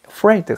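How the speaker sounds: afraid drawn out slowly, no extra vowel after the d; one-syllable afraid. Shown as a demonstration. Teacher demonstrating afraid slowly to a student. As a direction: stretch afraid as a single syllable. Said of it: "한 음절로 끝나".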